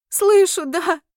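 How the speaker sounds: high, loud tearful answer; sobbing fairy. Acted. Fairy Sonya answers the heroine, tearful and high. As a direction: answer through fading sobs. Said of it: "Рыдания стали тише".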